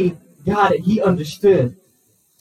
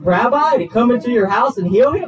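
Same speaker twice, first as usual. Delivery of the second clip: questioning; 3 semitones higher than usual. Acted. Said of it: "Jesus could be asking this".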